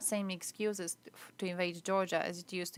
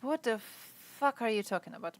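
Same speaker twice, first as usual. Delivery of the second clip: full voice, exasperated and incredulous; outraged disbelief; 3 semitones higher than usual. Real, not acted. Reacting to chat statement.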